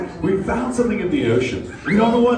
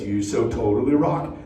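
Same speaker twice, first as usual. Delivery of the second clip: lower, quieter demo of the cue line; low, soft turtle catchphrase; 11 semitones lower than usual. Shown as a demonstration. Turtle quietly explaining the cue to the kids. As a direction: murmur it low as a cue example. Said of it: "if a turtle says".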